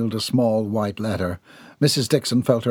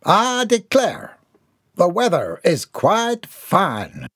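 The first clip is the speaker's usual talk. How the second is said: slow, higher, mock booming declaration; 8 semitones higher, slower than usual. Mortimer announces himself from the mansion doorway, slow mock boom. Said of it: "boomed a deep baritone voice".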